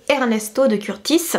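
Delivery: attempted Italian accent on the composer's name; amateur Italian pronunciation; bad Italian accent. Real, not acted. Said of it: "mon accent italien très très pourri".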